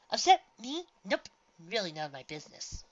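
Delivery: snorting. A narrator's reading.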